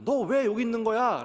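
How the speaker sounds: put-on frantic parent scolding a lost boy. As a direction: demand where the child went. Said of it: "라고 부모가 얘기했을 때".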